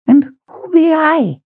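put-on slow, quavery old woman's voice; old Elda. Old Elda asking the big man who she is, slow and high. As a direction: ask it like a bewildered old woman.

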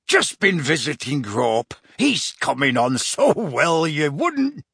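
a hint of the big friendly giant, cheerful; lightly voiced Hagrid. Hagrid character voice.

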